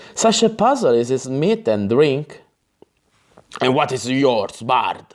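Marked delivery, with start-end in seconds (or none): 3.6-4.9 snapping, waspish, irritable, sharp. A character in the story retorts to the bard, snapping waspishly. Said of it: "Snapped Devdine waspishly".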